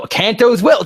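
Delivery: screaming the name in disbelief; frustrated shout. Real, not acted. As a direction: scream Kanto's Will back at the page. Yells the repeated phrase back.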